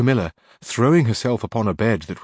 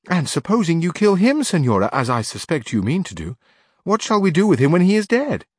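a higher, urgent voice for the scheming maid; crafty maid pleading; 4 semitones higher, 3 dB louder than usual. Acted. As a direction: plead with your mistress, rising alarm. Leonela pleads with her mistress.

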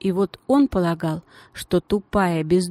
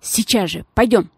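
clipped firmly; 3 semitones higher, 3 dB louder than usual. Acted. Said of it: "отчеканила".

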